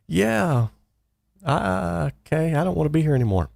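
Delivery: high and fast, rattled; nervous backing out. Retold or imitated. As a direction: hurry to get out of there. Just shot at, wants out.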